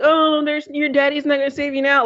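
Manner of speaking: high, sing-song mock taunt. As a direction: imitate a villain teasing her captive. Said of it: "her taunting him".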